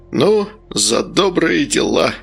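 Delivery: mildly pompous, measured delivery; solemn toast. A narrator's reading. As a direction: draw it out like a formal toast. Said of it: "произнёс Медовар торжественно".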